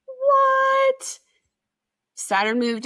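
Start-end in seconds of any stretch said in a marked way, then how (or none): 0.1-1.2 sudden high, loud what; stunned what. Real, not acted. Waking up feeling on fire, a sudden loud high what. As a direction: shoot the pitch up in disbelief.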